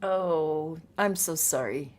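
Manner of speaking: low, tender commiseration; gentle sympathy. Real, not acted. Co-host commiserates over a returning corn, gentle sympathy. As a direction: soften and drop the pitch in sympathy.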